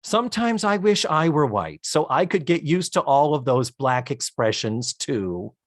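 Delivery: Isabel Sanford impression. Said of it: "nailing your Isabel Sanford".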